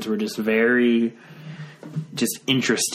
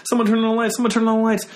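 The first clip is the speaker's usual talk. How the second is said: higher, urgent repeated call for light; retold frantic yell; 11 semitones higher, 3 dB louder, much faster than usual. Teens in a dark garage calling for lights, retold frantic yell. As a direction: call out in a half-panicked retelling. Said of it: "like, yelling".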